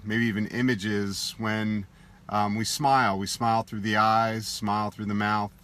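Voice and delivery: unhurried meditation guide, long pauses between phrases; guided meditation. Acted. Teacher guiding listeners to soften face and shoulders, in meditation voice. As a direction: gently lead a body relaxation, leaving space after each instruction.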